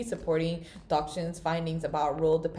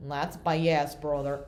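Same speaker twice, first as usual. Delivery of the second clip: put-on country accent; 3 semitones lower, much slower than usual. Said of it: "I shouldn't have done a country accent".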